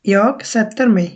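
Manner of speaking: jag sätter mig spoken very slowly, word by word; slow careful model sentence for learners; slow Swedish demo. Shown as a demonstration. Teacher modelling a Swedish sentence for students, very slow. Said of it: "যেমন আমি এখন বসতেছি".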